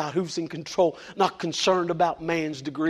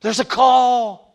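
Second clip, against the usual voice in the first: louder, slow, ringing declaration; booming proclamation; 8 semitones higher, 13 dB louder, much slower than usual. Acted. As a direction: proclaim it slowly to the whole room. Sudden preaching burst.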